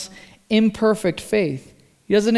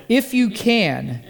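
weak, doubtful; slower than usual. Retold or imitated. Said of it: "a pretty weak statement of faith".

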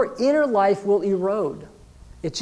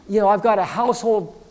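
slightly raised, whiny-edged objection; acted protesting excuse; 3 semitones higher than usual. Busy congregant objecting to daily devotion, acted protest. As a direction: plead overload, piling up the excuses.

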